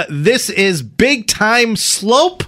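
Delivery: big slow title announcement; show announcer. Acted. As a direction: present the title grandly, drawn out. Introducing the acted scene.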